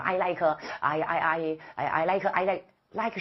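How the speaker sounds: stammering over the first words; halting, non-fluent answer. Acted. Exam candidate asked what they like, stammering. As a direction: repeat and stall like a tongue-tied candidate. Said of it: "流利，就说得很流畅。 别跟他".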